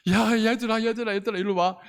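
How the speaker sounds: lightly acted call to little ones; calling children over. Bathhouse lady calling stray toddlers over, urgent beckoning.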